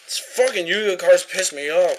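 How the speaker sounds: angry rant. Real, not acted. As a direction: vent at the cards loudly. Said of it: "now I'm fucking pissed off".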